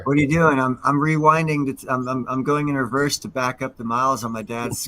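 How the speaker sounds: high, eager quoting voice; excited movie quote. Retold or imitated. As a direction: blurt it out like the movie character. Quoting Ferris Bueller parking attendant scene.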